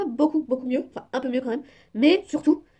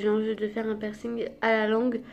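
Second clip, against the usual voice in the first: lisping from a new tongue piercing; slight lisp on the s sounds. Real, not acted. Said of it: "je tenais à m'excuser si je zozote".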